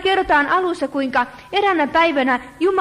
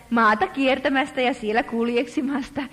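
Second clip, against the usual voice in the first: a hint of a sly, slimy devil; lightly voiced nasty accuser; understated oily devil; slimy Satan voice; 3 semitones lower than usual. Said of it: "inhottavana, niljakkaan äänenä".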